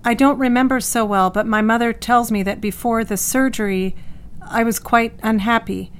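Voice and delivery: evenly recounted, with little feeling; placid indifference. Acted. Patient recalling life before surgery, placid and indifferent. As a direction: recall old troubles as if untroubled. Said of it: "Dot presents a placidity and indifference".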